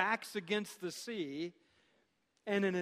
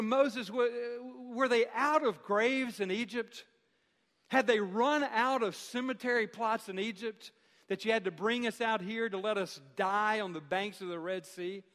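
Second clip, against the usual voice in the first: a touch of mock anger, a bit louder; angry crowd; 3 semitones higher, 3 dB louder than usual. Israelites blaming Moses, voiced with mild mock anger. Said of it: "crying out to Moses in anger".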